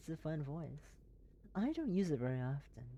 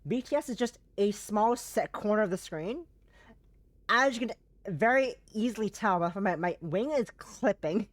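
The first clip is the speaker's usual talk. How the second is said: lifted, airy put-on streamer voice, higher and louder; fun airy voice; 4 semitones higher, 5 dB louder than usual. Streamer explaining her setup to chat, in a higher airy fun voice. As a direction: play it light and airy, a silly fun voice. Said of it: "It's fun talking like this".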